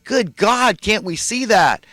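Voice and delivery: high, exasperated outcry to the listeners; outraged outcry. Real, not acted. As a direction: cry out in real outrage that nobody sees it. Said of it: "I'm outraged".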